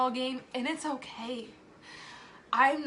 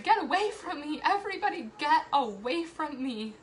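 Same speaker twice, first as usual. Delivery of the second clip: higher-pitched, mock-frantic push-away; acted anxious plea; 4 semitones higher, 3 dB louder than usual. Overwhelmed mom acting out her anxiety to everybody, mock-frantic. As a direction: act out an overwhelmed outburst. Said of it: "that's how my anxiety presents itself".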